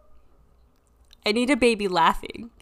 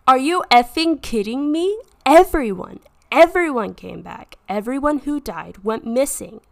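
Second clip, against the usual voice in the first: shocked shout; 3 semitones higher, 7 dB louder than usual. Acted. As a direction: yell it in shocked disbelief. Officer swears at the news.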